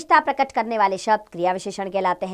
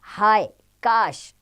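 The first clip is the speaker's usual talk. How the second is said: wistful sigh; much slower than usual. Shown as a demonstration. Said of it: "इच्छा बोधक शब्द है".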